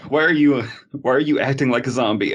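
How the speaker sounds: high mock cop. Acted cop questioning.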